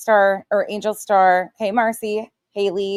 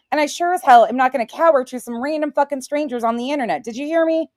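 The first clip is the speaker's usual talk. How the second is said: firm rant; 6 semitones higher, faster than usual. Real, not acted. Angry rant at chat critics.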